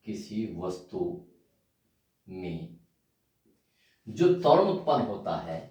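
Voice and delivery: word by word with long pauses, for copying down; slow dictation. Shown as a demonstration. Teacher dictating to students, slow and halting. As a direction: dictate slowly so students can write. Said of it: "तो लिखिए".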